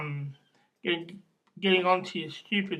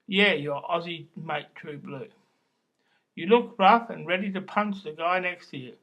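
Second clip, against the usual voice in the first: poem recital. Acted. Poet performing an Aussie beer poem for listeners, chanting recital. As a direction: recite it in lines, punching up each refrain.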